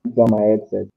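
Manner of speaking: fuzz distortion. Real, not acted.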